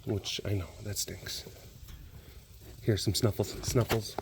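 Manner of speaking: soft, low sympathy; pet consoling. Real, not acted. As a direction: soothe the pet quietly. Consoling the pet before leaving.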